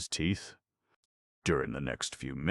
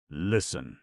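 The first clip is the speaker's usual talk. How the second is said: crying out; 2 semitones higher, 5 dB louder than usual. Acted. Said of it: "cried Venice into the night".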